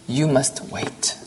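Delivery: slow, softened reply; hushed, gentle firmness; quiet, soft. A narrator's reading. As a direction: drop the volume and draw each word out. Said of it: "Then quietly, softly".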